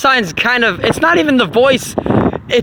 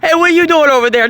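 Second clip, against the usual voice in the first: imitating a boss nagging about dishes, higher; mock bossy yelling; 4 semitones higher than usual. Capricorn boss scolding workers over dishes, mock nagging. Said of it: "telling them to get the fucking work".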